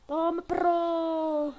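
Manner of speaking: loud, high, drawn-out taunt; triumphant shout. Real, not acted. Streamer taunting her opponent in the game, triumphant shout. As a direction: crow it slowly at a beaten opponent.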